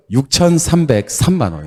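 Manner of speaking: 육천삼백삼만 said slowly; deliberate model answer; slow model reading. Shown as a demonstration. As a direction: lay out 육천삼백삼만 clearly for the class. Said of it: "읽을 수 있어야 돼".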